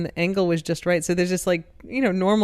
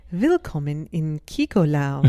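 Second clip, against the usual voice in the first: slow, grand TV announcer; slower than usual. Retold or imitated. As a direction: welcome them like a show host. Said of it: "Yeah, the announcer voice".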